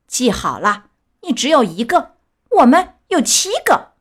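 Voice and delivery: loud bullying warning; threatening shout. Acted. Biggest boy threatens Pinocchio, loud and menacing. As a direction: square up and threaten him. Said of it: "最大的一个走到他面前叫道".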